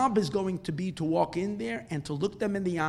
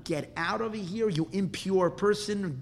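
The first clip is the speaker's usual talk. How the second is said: slow, stretched-out rebuke; mildly angry, deliberate banishing; stern dismissal; 3 semitones higher, slower than usual. Acted. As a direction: order him out, drawing the words out. Rebbe orders visitor sent away.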